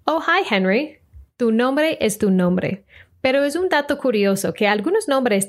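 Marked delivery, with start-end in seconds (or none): 0.1-1.0 higher-pitched mock English greeting; imagined American greeting. Americans greeting Enrique, mock greeting. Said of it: "no te van a decir".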